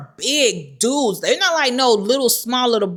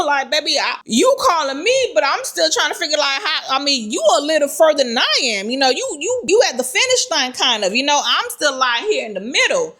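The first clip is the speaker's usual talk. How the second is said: higher, fast, flustered pleading to a panicked friend; talking to a crying friend, higher and fast with nervous excitement; 5 semitones higher than usual. Retold or imitated. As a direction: babble quickly and nervously, pitched up as if on the spot. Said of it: "I'm standing there kinda like".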